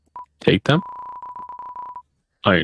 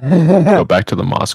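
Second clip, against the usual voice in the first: high mock urging; 8 semitones higher, 3 dB louder than usual.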